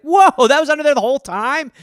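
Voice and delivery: loud, high astonished whoa; patient shocked at what fell out; mock amazement. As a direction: act stunned at the find.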